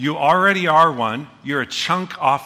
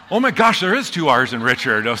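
sudden realization; 5 dB louder than usual. Retold or imitated. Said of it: "And then I thought".

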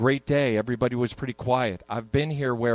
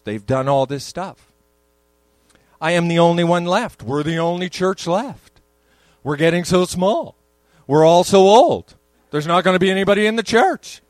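mock panicked lament; 5 dB louder than usual. Elijah's complaint mocked as panic.

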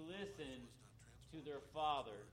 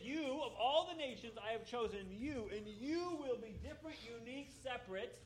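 voicing God's call; 7 semitones higher, 4 dB louder than usual. Preacher voices God's calling.

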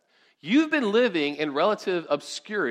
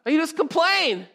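a hint of an exasperated Moses, higher; fed-up leader, mildly mock; 10 semitones higher than usual. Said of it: "And Moses is like".

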